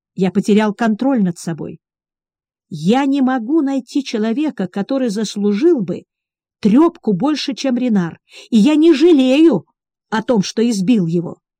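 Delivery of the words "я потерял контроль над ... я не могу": plain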